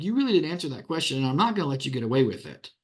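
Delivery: quick, firm talking-down; scolding a witness who won't answer; patronizing. Shown as a demonstration. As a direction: make them look foolish for dodging. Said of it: "somewhat patronizing, uh, effect on them".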